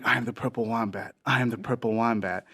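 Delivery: soft, understated eerie summons; lightly voiced distant mystery creature; mysterious calling voice. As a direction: beckon quietly from the dark.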